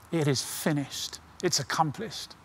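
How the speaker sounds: a soft, quiet retelling of dying words; hushed last words. Retold or imitated. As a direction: let it fall soft, nearly spent.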